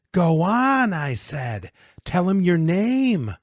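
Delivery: loud, high, insistent order; bullying demand. Acted. Bully pinning Louis in icy water, shouting demands. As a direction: shout him into giving in.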